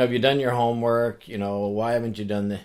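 lightly acted interrogation of a child; grilling dad. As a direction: fire off questions like a nagging dad. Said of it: "Now Dad's grilling me".

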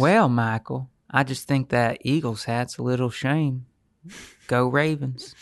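slow, lightly put-on Southern accent; mock Southern accent. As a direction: take your time in a Southern accent. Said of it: "They do talk like that".

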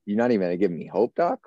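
a man who can't believe the doctor gave him no hope; incredulous outburst. Retold or imitated. To the doctor who just said cancer, incredulous. Reacting to cancer news, disbelief.

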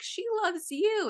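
high, drawn-out choked-up imitation; emotional. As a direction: gush it slowly, as if getting emotional. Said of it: "I, like, got emotional".

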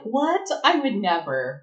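high-pitched mock-shocked "what", then denial; put-on offended denial; feigned innocence. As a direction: play innocent, badly faked. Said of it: "Quell gives that face like".

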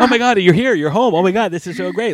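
squealing, overjoyed puppy greeting; joyful reunion. Retold or imitated. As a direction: gush like a dog at the door. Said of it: "compared me to a Labrador retriever".

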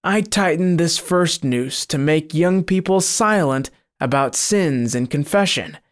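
a touch of fear in the devil-cat voice; a cornered demon confessing reluctantly; fearful monster. Acted. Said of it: "twisting fearfully, replied".

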